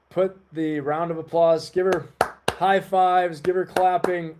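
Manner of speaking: rally everyone to cheer for her; hyping the crowd. Real, not acted. Streamer calling chat to applaud Becky, excited.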